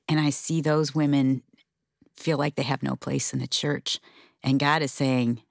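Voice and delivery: ordinary talk, nothing marked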